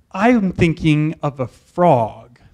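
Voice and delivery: lightly voiced cryptic teacher, slow; a hint of the mysterious teacher, drawn out. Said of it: "he's all mysterious".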